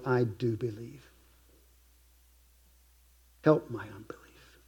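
soft, whispered prayer of doubt. Acted. Preacher praying to the Lord, whispered prayer. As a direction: breathe it out as a private prayer.

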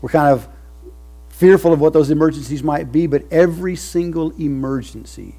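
full-force preaching. Acted. Preacher to his covenant people, full-force preaching. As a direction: lift it up and thunder it.

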